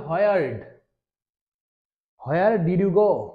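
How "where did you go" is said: each word of Where did you go? drawn out slowly; slow careful demo. Shown as a demonstration. Teacher slowly models the question for students. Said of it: "আমরা যদি where did you go?".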